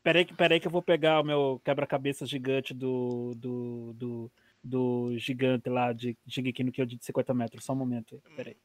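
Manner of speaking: low menacing villain voice; unhinged villain. Pretend. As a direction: growl it like a scheming villain. Villain fetches giant titan puzzle.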